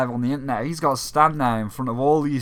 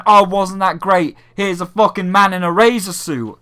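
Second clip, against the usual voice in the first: a hint of a cheery host, louder; mild mock host; 3 semitones higher, 6 dB louder than usual. Mocking the host moving on, a touch louder. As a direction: lightly mimic the chirpy presenter.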